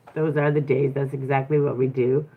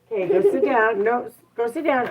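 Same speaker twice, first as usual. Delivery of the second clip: firm command; 6 semitones higher than usual. Real, not acted. Ordering toddler to sit.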